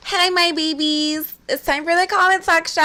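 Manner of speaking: high, gushing host greeting; playful segment intro. Pretend. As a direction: greet the fans in a hammed-up high voice. Host's mock greeting opening segment.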